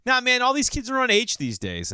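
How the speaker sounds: high, loud mock cool-guy talk; middle-aged man straining to sound hip; trying to sound cool. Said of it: "You wanna sound cool around your friends".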